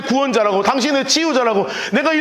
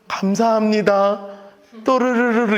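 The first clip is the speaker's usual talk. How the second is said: mock dainty single tear; slower than usual. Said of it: "이렇게 흘렀겠냐고요".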